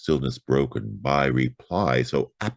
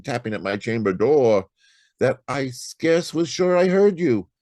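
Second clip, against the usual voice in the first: much higher, hurried and anxious; jumpy, pitched-up excuse to a stranger; nervous apology; 9 semitones higher than usual. Acted. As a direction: stammer out an apology to the dark doorway. Narrator nervously addresses unseen visitor.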